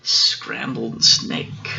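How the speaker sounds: slow, measured food reveal; unhurried storybook punchline; deliberate reveal. Acted. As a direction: draw the words out for the listener. Mouse names the favorite food.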